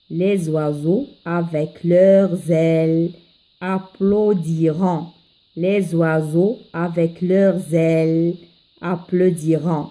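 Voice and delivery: verse modelled line by line; poem recitation for learners. Acted. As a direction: teach a poem by careful recitation. Teacher drills both stanzas.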